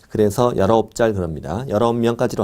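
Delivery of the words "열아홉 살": put-on "짤" said with a childish tch sound in place of s; short-tongued "짤" for 살; lisping baby talk. Shown as a demonstration. Teacher showing students a memory trick, short-tongued "짤". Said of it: "혀 짧은 소리 좀 내야 돼요".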